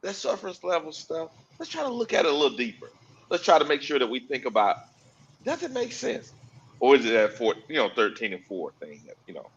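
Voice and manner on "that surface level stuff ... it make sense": hushed librarian voice, a bit quicker. Acted. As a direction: keep it down like in a library. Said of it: "Let's put our librarian voice today".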